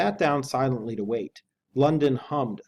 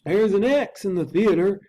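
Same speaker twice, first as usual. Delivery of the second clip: higher, louder anxious servant voice; a nervous old butler urging action; Poole the butler; 8 semitones higher, 6 dB louder than usual. Acted. Butler urges the lawyer to arm himself, anxious and high. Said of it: "continued Poole".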